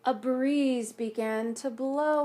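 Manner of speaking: slow, drawn-out narration; slow storytelling. A narrator's reading. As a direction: let the breeze unfold slowly. Reads picture book aloud.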